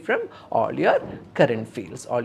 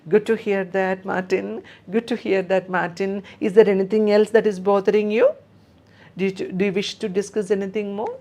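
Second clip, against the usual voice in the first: higher, bright reassuring nurse voice; caring nurse; 5 semitones higher than usual. Shown as a demonstration. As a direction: speak up gently to the patient, like a kind nurse. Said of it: "So we are just com-, giving a compliment".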